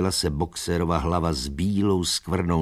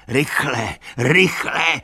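urgent high shout; 8 semitones higher, 4 dB louder, slower than usual. A narrator's reading. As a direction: call out in alarm. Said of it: "křičel".

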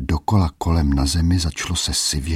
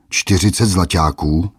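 mocking squeal; 3 semitones higher, 4 dB louder than usual. Bully mocks the old merchant's price, squealing. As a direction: squeal "Čtyřicet zlaťáků?" in mock outrage. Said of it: "vypískl hromotluk".

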